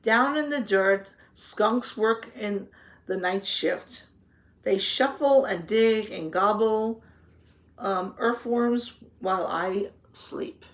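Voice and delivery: put-on reading to children. A narrator's reading. Teacher reading the garden book to the children, storybook voice. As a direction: read the page out to the class, with relish. Reads picture book aloud.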